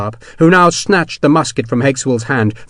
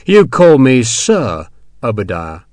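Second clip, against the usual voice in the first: menacing slow threat; 4 dB louder, slower than usual. Acted. Sharp threatening Hexwell.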